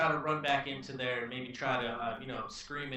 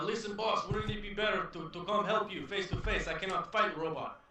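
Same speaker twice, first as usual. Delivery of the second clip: yelling; 6 semitones higher than usual. Acted. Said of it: "I'm gonna try to yell".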